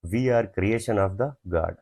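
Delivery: slow, word by word dictation. Shown as a demonstration. Teacher dictating an example sentence slowly to students. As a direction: spell each word out slowly for the class. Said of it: "इसका sentence".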